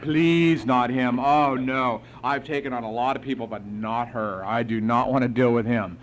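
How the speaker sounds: pleading prayer. Retold or imitated. Sponsor begging God not to give him this man, pleading. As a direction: imitate an emphatic, dreading prayer. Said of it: "this is what he prayed to God".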